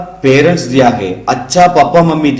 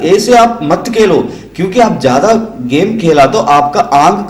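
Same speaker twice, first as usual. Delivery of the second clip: mock scolding mum and dad, pitched up; scolding parent; 3 semitones higher than usual. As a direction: nag like a parent about too much gaming. Parents scolding child over games. (डांटते mummy papa की नकल)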